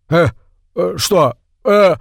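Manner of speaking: rising, confused stammer; startled. A narrator's reading. Watson is startled by Trimble's outburst, stammering confusion. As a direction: caught off guard and flustered. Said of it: "растерялся от неожиданности и испуга".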